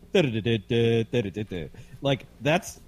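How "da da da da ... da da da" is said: mimicked sing-song cadence in "Da-da-da-da-da", trailing softer; Audrey McGlinchey. Co-host showing a reporter's story ending, "Da-da-da-da-da" in mimicked cadence. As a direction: imitate a reporter's closing tune on "Da-da-da-da-da". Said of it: "that ending where she goes".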